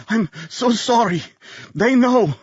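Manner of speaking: high, strained dying plea; pained apology. A narrator's reading. Dying man apologizing to Bernard, strained plea. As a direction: force the words out with pain.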